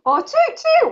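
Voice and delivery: high toot toot, falling; another toot. Shown as a demonstration. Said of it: "What does a boat do?".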